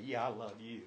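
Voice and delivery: offhand, dismissive, the Yeah tossed off. Shown as a demonstration. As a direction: throw it away like it means nothing. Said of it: "Same words".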